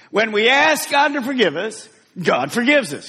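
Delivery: rising stress on ask, then a firm fall on forgives; lifted, emphatic modelled line; with emphasis. Shown as a demonstration. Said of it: "say it with some emphasis".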